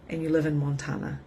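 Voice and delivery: ordinary talk, nothing marked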